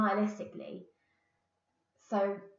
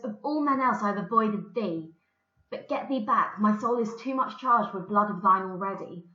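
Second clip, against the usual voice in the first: lightly dramatised reading, a bit louder; play reading; 6 dB louder than usual. Acted. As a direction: read the lines out firmly to the class. Reads the play aloud.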